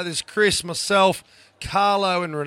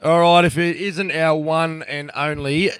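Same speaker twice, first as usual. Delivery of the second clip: big, louder welcome, pitched up; excited greeting; 2 semitones higher, 5 dB louder, slower than usual. Real, not acted. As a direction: hype up the guest as he joins. Hosts greet guest loudly.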